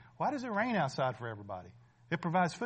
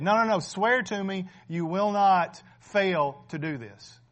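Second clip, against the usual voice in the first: insistent dying father; 3 semitones higher, 5 dB louder, slower than usual. Acted. Jacob demands his son swear.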